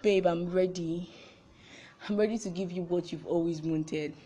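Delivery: low, subdued surrender, lightly acted; reluctant consent. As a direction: quietly voice a nervous yes. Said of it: "he mounts up courage".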